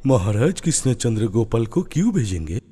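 angry. Acted. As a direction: fire back in irritation.

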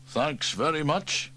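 slow, grudging thanks; grumpy. Acted. Sam grudgingly thanks Trevor for the job, grumpily. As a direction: say thanks sourly. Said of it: "said Sam grumpily".

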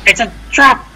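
movie quote voice. Retold or imitated. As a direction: deliver the famous line as a hammed-up film character. Repeats line in movie voice.

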